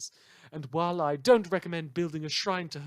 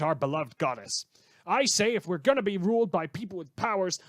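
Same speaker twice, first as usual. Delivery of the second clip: reading a fan's letter in an indignant, worked-up voice, a little louder; disgruntled fan letter; 3 semitones higher, 4 dB louder than usual. Acted. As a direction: give it the grumbling of an outraged listener writing in. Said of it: "today's letter comes from".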